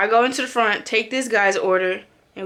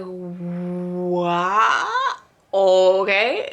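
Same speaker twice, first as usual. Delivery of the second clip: mocking the customer; 2 semitones lower, much slower than usual. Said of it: "My nigga like".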